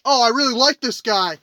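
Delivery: lightly mocking radio host impression; mild mock blather, running on and on; Dan Dockich. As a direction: imitate a self-promoting commentator rambling on. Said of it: "this is Dan Dockich".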